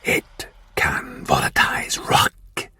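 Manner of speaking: slow, hissed, menacing whisper; whispering Martian warlord. Acted. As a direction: breathe the demand like a cold threat.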